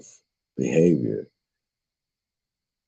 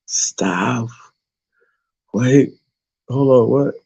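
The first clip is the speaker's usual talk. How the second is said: surprised halt; 7 semitones higher, slower than usual. Real, not acted. Stops reading in surprise.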